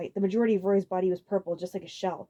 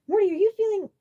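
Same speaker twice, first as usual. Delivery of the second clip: Iggy voice; 14 semitones higher, 8 dB louder than usual. A narrator's reading.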